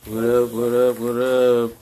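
easy, unhurried show intro; relaxed chill voice. Acted. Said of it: "so that's your relaxed chill voice".

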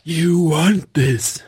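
slow sly tempting voice; tempting devilish whisper. Retold or imitated. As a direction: tempt him slowly and slyly. Emperor quote performed.

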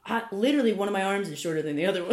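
high, loud, breaking into laughter; hammed-up puppet protest through laughter; laughing protest. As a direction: protest while cracking up.

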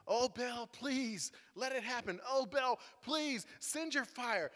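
mildly pleading chant, drawn-out please; lightly acted plea to a god; begging worshippers. Prophets pleading with Baal, mildly begging. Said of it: "beg your God".

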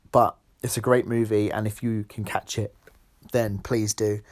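hiccuping between words; talking through hiccups. Real, not acted. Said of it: "Sorry, I've got hiccups".

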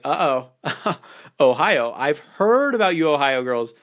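sly, playful, mock-wary tease; hint at mischief with a knowing laugh; a hammed-up uh-oh, as if she might be trouble; teasing innuendo. Shown as a demonstration. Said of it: "say something like".

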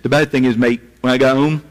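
badly faked Australian, drifting toward English; attempted Australian accent. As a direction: have a go at an Australian mate's accent. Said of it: "I wish I could do an, an Australian accent".

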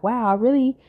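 high, incredulous self-quote; stunned disbelief. Retold or imitated. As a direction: squeak out your own disbelief. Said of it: "I'm like".

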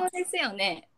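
careful standard-Japanese そうですよね; standard Japanese intonation. Shown as a demonstration. Friend confirming the standard version, standard intonation. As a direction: say そうですよね in standard Tokyo tune. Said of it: "これやな。".

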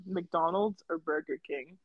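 soft unvoiced whisper. Real, not acted. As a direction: whisper it, slow and hushed. Whispered question.

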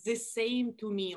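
Russian accent, "The" turned into a heavy "zee"; slow line, overdone Russian TH sounds; exaggerated Russian accent. Shown as a demonstration. Actress demonstrates her first audition take, exaggerated Russian accent. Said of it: "I exaggerated the T H sound".

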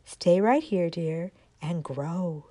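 kiss it gently with the words; tender. Acted. South wind tenderly soothing the little acorn. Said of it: "kissed her and said".

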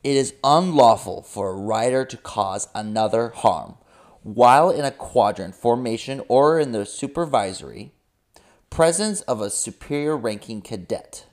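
mildly official proclamation voice; Codex voice. Pretend. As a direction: read it like a stern official rulebook.

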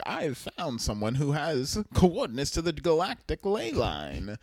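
a hint of a solemn messenger; lightly voiced announcer. Gwen Conn telling the crew of a discovery, lightly portentous. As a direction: deliver it as a grand announcement, falling low at the end.

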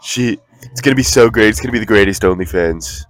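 Andrew Tate impression. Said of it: "do Andrew Tate".

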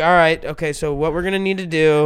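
composed mother taking charge; imitating an unruffled mom; calm mom. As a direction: talk it through evenly, no panic. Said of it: "she's just so calm".

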